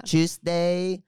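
put-on Filipino accent. Daughter mimics mom naming a weekday, "Tuesday" in Filipino accent. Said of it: "What does she say".

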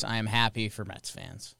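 flat, deadpan and low, no enthusiasm; monotone voice. Shown as a demonstration. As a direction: say it like a bored robot. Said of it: "in a monotone voice".

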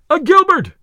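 very high, loud cheer; crowd cheer. A narrator's reading. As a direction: shout it out over the field.

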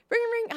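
high sing-song ring ring; mock phone ring. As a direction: chirp the ringing like a phone. Imitating phone ringing.

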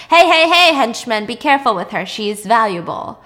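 loud, sharp warning; boss barking orders. Retold or imitated. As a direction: stop the henchmen roughly. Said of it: "the boss looks at Jamie and says".

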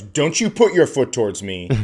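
mildly indignant mom's warning; mock scolding. Mom warns her son off with his smelly foot, mock scolding. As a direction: imitate a mother telling off her kid.

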